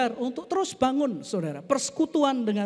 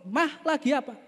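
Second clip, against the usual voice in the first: higher-pitched call to wife across the room; husband calling his wife; 4 semitones higher than usual. Acted. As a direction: call out to see if she hears. (suami memanggil istri dari jauh)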